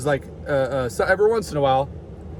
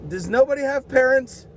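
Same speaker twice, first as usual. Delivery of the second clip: imitating old people; 4 semitones higher than usual. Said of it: "They're like".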